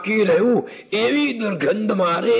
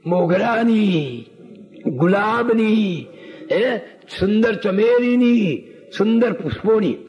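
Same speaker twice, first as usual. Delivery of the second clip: savoring slowly; slower than usual. Acted. Savoring sweet scents.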